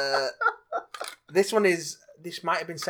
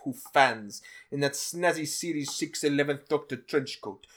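put-on Russian accent; 3 semitones higher than usual. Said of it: "Colossus from Deadpool".

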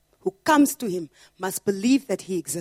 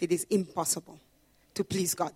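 quiet first take; 3 semitones lower, 6 dB quieter than usual. Shown as a demonstration. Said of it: "There's one impossibility".

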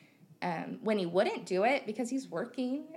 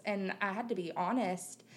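normal talking voice

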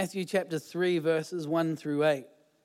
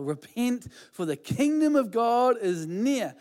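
preaching call; 4 semitones higher than usual. Retold or imitated. John preaching again.

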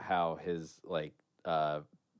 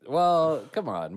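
excited; 8 semitones higher, 8 dB louder, slower than usual. Real, not acted. Urging the other to continue.

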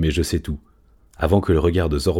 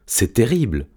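alarmed cat; 5 semitones higher than usual. Acted. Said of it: "miaula Je sais tout".

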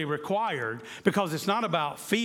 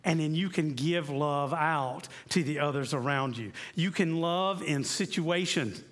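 gently encourage, like Jesus comforting; a touch of tender Jesus voice; reassuring. Retold or imitated. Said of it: "So you hear him saying".

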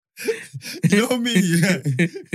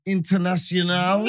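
slow puzzled Leao; 2 semitones higher, slower than usual. Retold or imitated. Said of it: "And he goes".

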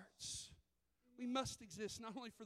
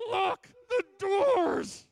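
slow, very loud panicked shout through clenched teeth; a terrified mother's forced-out command, slowed way down; 8 semitones higher, 16 dB louder, much slower than usual. Retold or imitated. Mother panicking at a homeless man, clenched-teeth yell. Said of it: "with clenched teeth goes".

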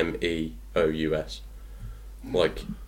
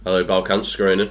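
phone voice; faster than usual. Pretend. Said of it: "So I think mine is".

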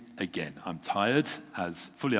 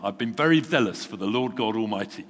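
exasperated complaint; 5 dB louder than usual. Acted. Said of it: "He replied exactly the same".

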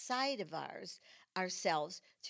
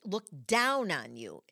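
mock ominous judgment; 2 semitones lower, 6 dB louder than usual. Repeats judgment phrase, slower.

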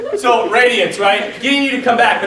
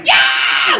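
high, breathy whoop of joy; wild unvoiced cheer; buddy's whoop; 11 semitones higher, 3 dB louder than usual. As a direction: whoop like a geek bouncing on a horse. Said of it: "he's like".

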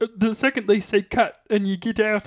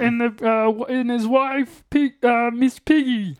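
plummy upper-class frog puppet voice; a frog puppet speaking like English gentry; posh Kermit voice. Pretend. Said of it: "practice my Posh Kermit".

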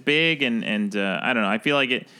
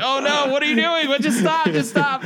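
high-pitched, laughing mock despair; mock panic; 4 dB louder than usual. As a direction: beg them to stop, squeaky and half laughing. Retold embarrassed boyfriend's inner plea.

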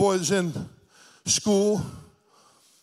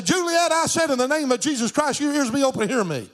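raised, insistent faith declaration; faith command; 6 semitones higher than usual. Retold or imitated. Preacher commands his deaf granddaughter's ears to open, raised insistent voice. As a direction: command it firmly in a higher pitch.

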